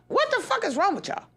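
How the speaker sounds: ordinary talk, nothing marked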